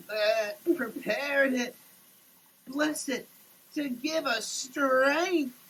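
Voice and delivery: earnest table prayer. Acted. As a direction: bless the food as a heartfelt prayer, voice catching near the end. Grace said over food.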